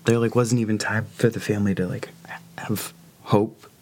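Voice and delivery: high, breaking tearful voice; talking through tears; crying. Real, not acted. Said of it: "I'm sorry, I'm crying".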